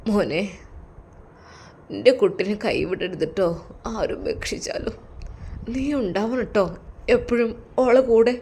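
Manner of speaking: soft, earnest plea from a frail father; softly pleading father; pleading old father. Acted. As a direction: beg him gently not to let go.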